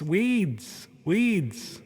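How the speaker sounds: "Weeds" drawn out with a falling tune; clarifying a word. Acted. Host correcting co-host who heard wigs, drawn-out clarifying. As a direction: say "Weeds" on its own, long vowel, to correct a mishearing. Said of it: "Not wigs".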